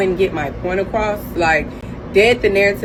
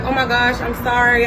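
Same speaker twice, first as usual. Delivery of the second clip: lightly higher, sheepish apology; a hint of a flustered coworker; imitating the coworker's flustered apology; apologetic coworker; 4 semitones higher than usual. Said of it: "And she's like".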